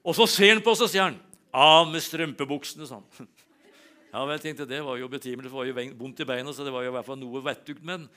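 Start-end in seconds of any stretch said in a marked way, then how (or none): 1.5-2.9 put-on loud, slow barked order from an old doctor; the old paediatrician ordering the tights off, loud and slow; blunt doctor order. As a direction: boom it out like a gruff old doctor giving orders.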